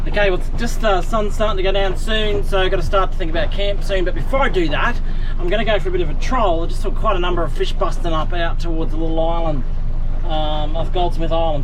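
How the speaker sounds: talking up over the motor noise; half-shouting above the engine; loud over the outboard. Real, not acted.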